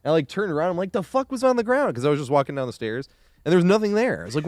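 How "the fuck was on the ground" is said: high-pitched, baffled reenacted question; retold bewilderment. Telling viewers about the stairs injury, bewildered. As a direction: replay being baffled, pitch jumping up. Retelling shock at stepping on something.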